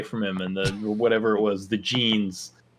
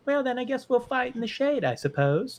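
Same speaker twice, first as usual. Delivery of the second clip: Peppa Pig voice. Acted.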